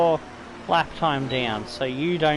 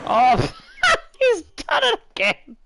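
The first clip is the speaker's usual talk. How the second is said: laughing disbelief; 5 dB louder than usual. Real, not acted. Rival hits him again.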